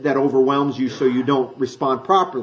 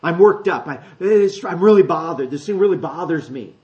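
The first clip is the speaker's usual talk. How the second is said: troubled inner voice; 5 dB louder than usual. Retold or imitated. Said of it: "what it means to be troubled or agitated".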